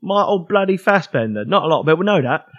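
put-on Cockney accent, fast; quick Cockney Michael Caine; Michael Caine impression. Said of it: "my Michael Caine impression".

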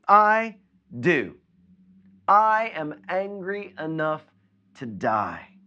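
high, loud, defiant shout; furious Jonah. Retold or imitated. Jonah answering God about the vine, shouting in fury. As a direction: bellow it like Jonah raging at God. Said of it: "At least Jonah answered correctly".

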